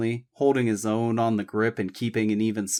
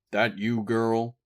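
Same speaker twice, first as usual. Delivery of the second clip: Virginia drawl; slower than usual. A narrator's reading. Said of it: "deep baritone voice rumbled ... Virginia drawl".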